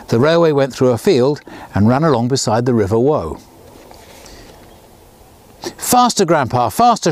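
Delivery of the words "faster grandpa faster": excited shout. Acted. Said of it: "shouted the twins".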